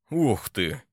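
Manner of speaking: light up at the news; delighted wow. A narrator's reading. Turbin delights at hearing about siege engines. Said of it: "обрадовался Турбин".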